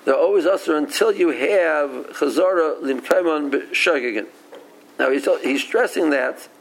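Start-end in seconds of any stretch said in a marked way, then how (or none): 0.0-4.3 "until you have Chazara Limkaimon B'Shogegin" slowly and firmly emphasized; slow down and weight each word through to "B'Shogegin"; deliberate, slow stress on the condition ending "B'Shogegin"; stressed qualifying clause. Retold or imitated. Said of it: "it's stressing".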